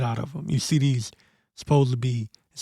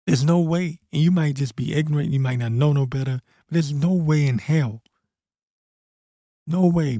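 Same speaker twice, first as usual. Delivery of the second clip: angry rant; 3 semitones higher, 4 dB louder than usual. Real, not acted. Man ranting to viewers about the place, real heated anger. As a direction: hammer it home in real anger.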